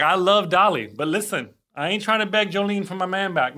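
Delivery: lightly imitated Southern sass; a hint of the sassy instructor's Southern lilt; Southern gay riff. Quoting the cycling instructor on a singer, light Southern imitation. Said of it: "He's like".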